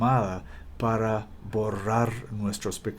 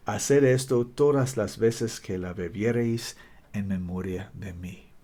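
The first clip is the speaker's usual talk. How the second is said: Spanish with an American accent. Real, not acted. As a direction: read Spanish like an American learner. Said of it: "Perdón mi español".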